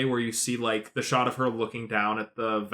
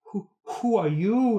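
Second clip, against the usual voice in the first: higher voice, lightly put on; mock passerby; 6 semitones higher than usual. A passerby asking Rey who she is, lightly voiced. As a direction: sound nosy and curious. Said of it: "passerby is like".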